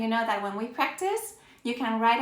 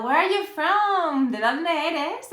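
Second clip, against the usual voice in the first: slow teacher example; 4 semitones higher, 3 dB louder, slower than usual. Shown as a demonstration. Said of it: "To express the origin".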